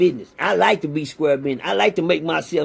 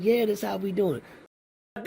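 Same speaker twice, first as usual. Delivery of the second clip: cold slow reply; 7 dB quieter, slower than usual. Retold or imitated. Answering coldly, acted quote.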